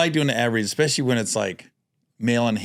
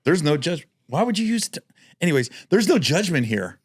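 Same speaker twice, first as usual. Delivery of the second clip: ad read; faster than usual. Pretend. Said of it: "Let's do a mock one".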